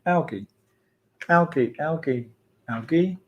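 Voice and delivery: "algae" with a hard g, as AL-ghee. Shown as a demonstration. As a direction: try out "algae" with g as in go. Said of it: "Is it algae or algae".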